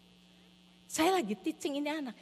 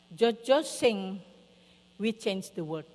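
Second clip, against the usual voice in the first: lightly voiced toddler, slow and halting; slow, simple child-talk, only lightly put on; small child; 3 semitones lower, much slower than usual. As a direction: imitate a little kid reporting, word by word. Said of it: "Kenapa, Zack?".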